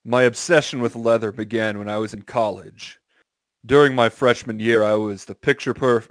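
slightly theatrical narrator read; lightly affected story-reading voice; put-on reading voice. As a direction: read it out with a touch of put-on drama. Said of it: "reading it in that voice".

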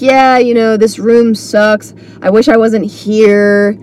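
imitating sour, dragging comics; negative. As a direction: grumble slowly like a fed-up performer, lightly mocked. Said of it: "a little bit of a negative air".

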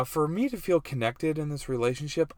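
a hint of mock girl voice. Retelling what his wife needs to feel connected, girl voice. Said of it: "this is my girl voice".

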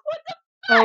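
high, loud re-enacted outburst; retold shock. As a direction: act out your stunned reaction, pitch leaping up. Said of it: "And I was like".

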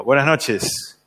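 saludo seco imitado, un poco más bajo de tono; saludo frío. Retold or imitated. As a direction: saluda con fría distancia, imitando al papá. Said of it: "frío". (saludo frío del papá)

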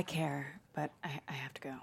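hurried unvoiced whisper. Friend to friend, a rushed whisper. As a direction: whisper it quickly and slip away.

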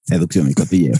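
low, lisping Spanish seducer voice; bad fake accent from Spain; cheesy Spanish accent. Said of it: "Súper cutre de imitar el acento español".

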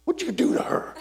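wife shocked at what happened; wife's alarmed question. Retold or imitated. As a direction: ask it like a startled wife. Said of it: "Connie goes".

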